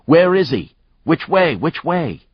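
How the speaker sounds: high, loud frightened yelling; panicked screaming. Acted. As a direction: shout in panic, searching. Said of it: "The uniform was screaming".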